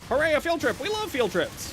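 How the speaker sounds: mock excited cheer.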